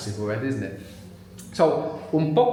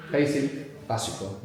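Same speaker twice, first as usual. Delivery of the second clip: "Basic" then "básico", both stressed on the first syllable; same word stress; 3 semitones lower, 4 dB quieter than usual. Shown as a demonstration. Teacher showing no stress change, first-syllable stress in "básico". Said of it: "No change in word stress".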